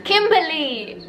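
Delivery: slow, drawn-out cry of a name; calling out. Real, not acted. To the TV about a character, a slow sad call. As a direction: call her name in sympathy.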